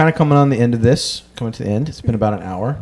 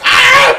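brief, loud, wordless mock scream; short mock scream; 6 dB louder than usual. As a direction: let out a quick burst of pretend screaming. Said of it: "I started screaming at him".

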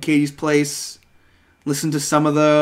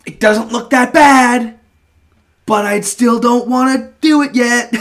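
high, slow talking to oneself; hammed-up hesitant verdict, louder and drawn out; mock reluctance; 7 semitones higher, 4 dB louder than usual. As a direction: put it off in a raised, mildly comic voice. Quoting himself inspecting the record.

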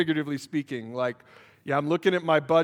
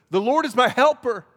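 much higher and louder, ringing out; preacher's shouted declaration of faith; triumphant proclamation; 8 semitones higher, 6 dB louder than usual. Acted. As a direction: cry it out in triumph. Triumphant scripture climax.

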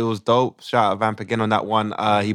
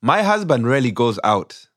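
put-on Ugandan accent. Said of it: "we do it in a Ugandan accent".

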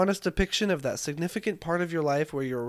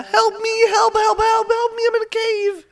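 high, desperate cries for help with echo; cave echo; 6 dB louder than usual. Pretend. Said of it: "Anything you wanna say in echo".

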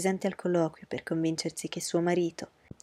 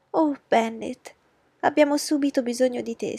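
high, loud, frantic cry to her husband; bursting into the library in a panic; shouting; 6 semitones higher, 5 dB louder than usual. Acted. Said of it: "gridò". (grida alla moglie del marito, acuta e forte)

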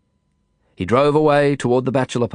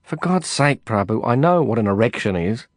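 grumbling. Acted. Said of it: "I grumbled".

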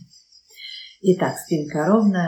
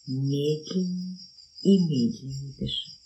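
slowing down. Shown as a demonstration. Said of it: "она начинает". (всё медленнее)

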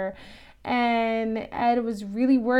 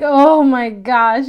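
mock excited gasp; 8 dB louder, slower than usual. Ghost facers' gasp, retold.

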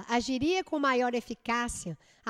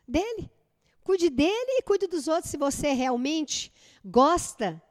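mother scolding. Retold or imitated. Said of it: "Aí a mãe aproxima e fala assim".

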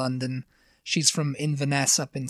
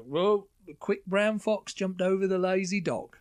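failed Cockney accent; 4 semitones higher than usual. Shown as a demonstration. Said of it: "I don't know what accent that was. It wasn't really Cockney".

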